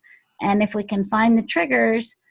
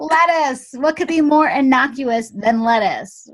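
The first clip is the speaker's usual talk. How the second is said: incredulous; 4 semitones higher, 4 dB louder than usual. Real, not acted. Repeats trigger in disbelief.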